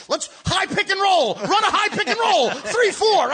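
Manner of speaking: loud, high barked play call; young player calling plays. Retold or imitated. Twenty-two-year-old calling a pick and roll, shouting high. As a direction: call the play like a cocky point guard. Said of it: "he tells them".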